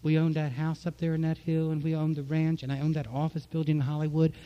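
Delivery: rising high and loud, then slowing to a sigh; retold excited boast. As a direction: tell Don you'll be rich, then deflate. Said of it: "I said to Don".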